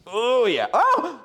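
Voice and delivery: ordinary talk, nothing marked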